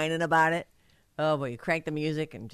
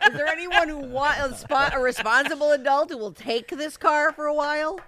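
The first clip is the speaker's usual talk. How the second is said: laughing through the words, pitched up; amused mock plea, laughing, higher; 8 semitones higher, 5 dB louder than usual. Real, not acted. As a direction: giggle it out as a joke offer. Joking about car of kids.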